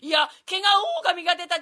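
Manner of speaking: loud shouting wolf; a wolf yelling in alarm. Acted. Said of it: "狼でございます".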